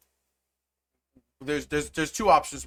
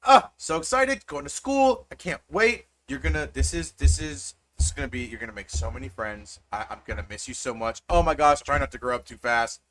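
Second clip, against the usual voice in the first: excited mom. Acted. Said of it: "and she goes".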